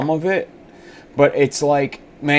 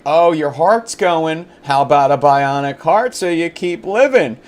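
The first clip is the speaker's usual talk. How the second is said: mock sales pitch; 4 semitones higher, 4 dB louder than usual. Tech company luring a heart patient, mock sales pitch. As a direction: coax them like a too-eager seller. Voices them pitching bionic parts.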